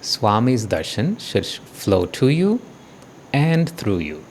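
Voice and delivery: slow guiding voice with long pauses; guided meditation. Real, not acted. Teacher tells the group to relax and receive darshan, guided meditation. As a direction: lead them gently into it, unhurried.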